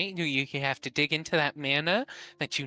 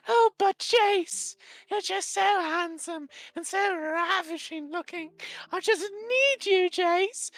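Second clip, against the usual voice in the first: sweet nothings. Acted. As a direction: coo at him like a lovestruck admirer. Samantha's voice fawns over Jace.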